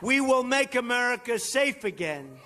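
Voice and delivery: rising shouted campaign chant; rally speech. Real, not acted. Closing rally chant, crowd.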